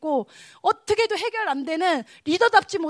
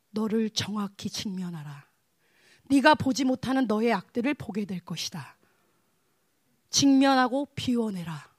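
God's solemn command; 4 semitones lower than usual. Retold or imitated. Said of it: "하나님이 저한테 뭐라고 하냐면".

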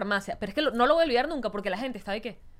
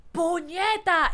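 drawn-out mock curse, higher; slow, raised imitation of a cursing driver; retold angry curse; 7 semitones higher, much slower than usual. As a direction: spit it out slowly like the crashing taxi driver. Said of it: "y dijo".

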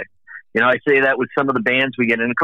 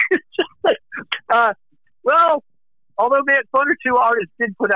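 exasperated; 11 semitones higher than usual. Real, not acted. Exasperated after laughing.

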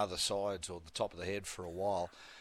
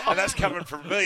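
laughing, louder and higher; laughing through words; 8 semitones higher, 8 dB louder than usual. Real, not acted. Radio host to co-host about his own hair, laughing. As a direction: crack up at your own hair joke.

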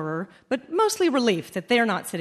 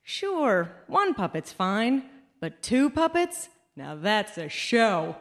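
smug inner voice; slower than usual. Retold or imitated. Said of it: "think to myself".

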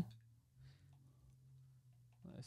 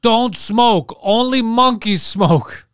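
higher, drawn-out mock public service announcement; mock campaign slogan; 4 semitones higher, much slower than usual. Comic mocking the anti-smoking campaign, slow slogan voice. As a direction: deliver a slogan with hammed-up earnestness.

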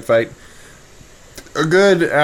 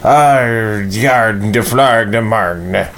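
pirate accent; much slower than usual. Shown as a demonstration. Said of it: "What is a pirate accent anyway?".

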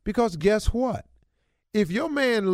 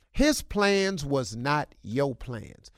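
slow, low, every word weighed; slow verdict; 5 semitones lower, much slower than usual. Real, not acted. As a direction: lay it down slowly and firmly.

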